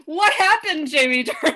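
high, loud, laughing cry of dismay; mock despair at a bad accent, laughing. Real, not acted. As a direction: wail it through laughter.

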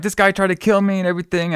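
high-pitched mock panic; imitated freak-out. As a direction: act out a frantic complaint, lightly. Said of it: "she's, like, freaking out".

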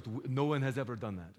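lightly imitated Russian boat driver; attempted Russian accent. Boat driver answering a request to jump, in a loose Russian accent. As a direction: try a rough, slight Russian accent. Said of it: "that was a Russian accent".

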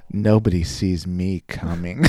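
slow, lightly voiced tease; teasing pilot. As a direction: play a sultry pilot, half-hearted and slow. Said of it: "I'll clearly do her voice".

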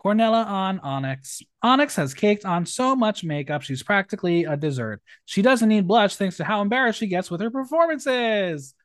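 lively, projected read-out of a roast; performed drag-roast reading. Acted. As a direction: announce the name, then deliver the jibe. Reads out contestants' roast jokes.

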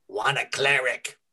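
lightly voiced hissing goblin; hissed. A narrator's reading. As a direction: goblin question with a touch of hiss. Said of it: "it hissed".

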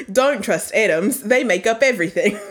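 an Aussie voice that cracks up at the punchline; Australian accent. Shown as a demonstration. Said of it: "What about an Australian accent?".

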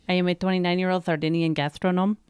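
mock Italian accent; hammed-up Italian accent. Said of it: "Is that your best Italian accent?".

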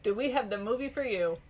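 lightly voiced sales closer; car salesman pitch. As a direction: wrap up the pitch like an ad. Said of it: "Sound like a car salesman".

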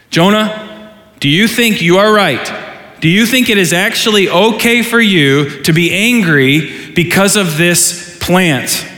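lightly voiced God pressing Jonah; God questioning.

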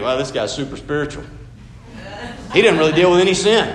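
hammed-up awe at a super spiritual guy; sarcastic admiration. The group admires a man who only confesses worry, sarcastically. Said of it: "We think".

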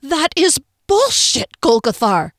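high, loud, slow furious scream. A narrator's reading. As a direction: scream it at him. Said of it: "she screamed at him".

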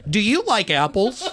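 lightly done Boston accent; film line in a playful Boston accent. Shown as a demonstration. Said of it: "I can do a Boston accent".

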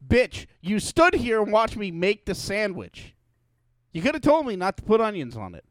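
sarcastic. Pretend. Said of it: "I would reply with".

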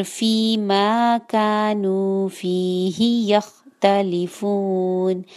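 slow chanted recitation, फी मा कानू फीही यख्तलिफून with long vowels; slow Quran recitation. Shown as a demonstration. Teacher recites the verse as a model, slowly chanting. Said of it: "फी मा टू counts".

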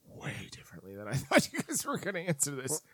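a hushed aside with a small laugh; telling co-hosts in a whisper with a laugh. Real, not acted. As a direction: whisper it, amused.

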